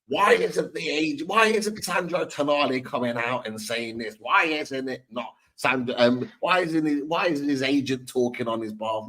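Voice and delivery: mock the pundit's ranting question; Lawless voice. Podcast host imitates a fellow pundit, lightly voiced rant. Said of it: "I'll do it in a Lawless voice".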